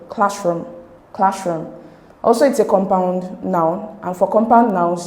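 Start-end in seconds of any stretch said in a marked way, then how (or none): 0.1-1.7 classroom with CLASS stressed; stress on first syllable. Shown as a demonstration. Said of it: "stress is on the first syllable".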